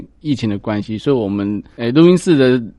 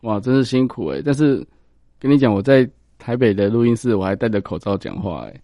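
muffled speech through a face mask; talking behind a face mask, slightly muffled. Real, not acted.

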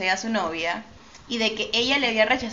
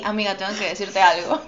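laughing reenactment. Shown as a demonstration. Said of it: "todavía me acuerdo que fue así".

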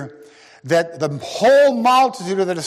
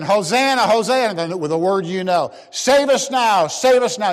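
raised, higher cry of Hosanna; crowd's cry; 4 semitones higher than usual. Retold or imitated. Crowd greets Jesus, lightly raised cry. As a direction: call out like the crowd. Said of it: "they're saying".

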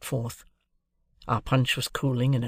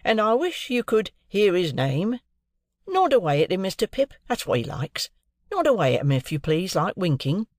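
Wemmick voice; 6 semitones higher than usual. A narrator's reading. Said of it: "said Wemmick".

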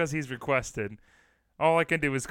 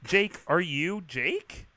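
puzzled caller; 3 semitones higher, much slower than usual. Acted. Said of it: "Can you imagine calling somebody up and say".

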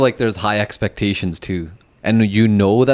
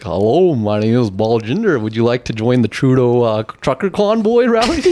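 white guy caller. Retold or imitated. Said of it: "like, a white guy calling".

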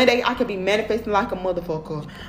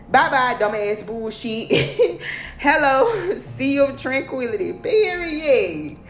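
slow, laughing through the words; laughing quote read; 3 semitones higher, slower than usual. Shown as a demonstration. Reading the day's quote to her followers, slow and laughing. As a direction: savor it with a laugh. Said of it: "I like how I said that. I read that shit like it wasn't fucking nothing".

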